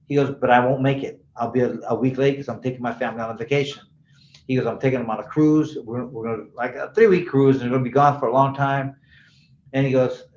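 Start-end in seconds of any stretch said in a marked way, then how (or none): 0.4-3.8 unbothered, low-pitched retold voice; low and matter-of-fact, no worry; cool as a cucumber. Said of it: "he's cool as a ... a cucumber". 4.7-8.9 unbothered, low-pitched retold voice; low and matter-of-fact, no worry; cool as a cucumber. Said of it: "he's cool as a ... a cucumber".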